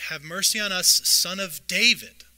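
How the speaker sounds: loud, slow plea to Jesus; calling out. Acted. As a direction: cry out for mercy across a crowd. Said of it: "and they call out".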